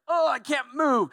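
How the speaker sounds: high, strained cry of being crushed; squeezed and crushed. Acted. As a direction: groan it out, pinned by the crowd. Crowd squeezing Jesus, acted.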